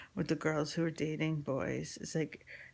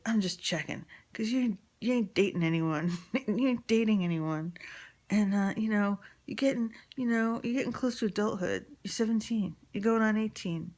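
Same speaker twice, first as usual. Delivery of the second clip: imitating pushy father; 4 semitones higher, 4 dB louder than usual. Father pressing daughter, voiced.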